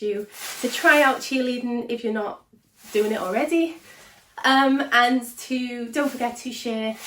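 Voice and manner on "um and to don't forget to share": breathless after dancing; panting between words; out of breath. Real, not acted. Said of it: "whew, I'm out of breath".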